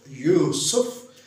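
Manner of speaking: यूसुफ drawn out as two beats, यू-सुफ; split into syllables. Shown as a demonstration. Teacher showing two parts of the name, syllable by syllable. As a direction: slowly break यूसुफ into यू and सुफ. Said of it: "तो दो part".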